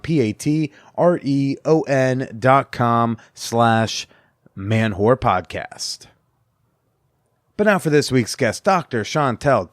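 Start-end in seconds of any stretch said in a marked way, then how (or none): 0.0-6.1 slow, letter by letter spelling; slowly spelled out. Shown as a demonstration. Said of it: "That's Patreon".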